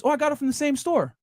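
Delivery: lightly imitating a friend showing off the same bag; gushing friend. Friend voiced in bag story.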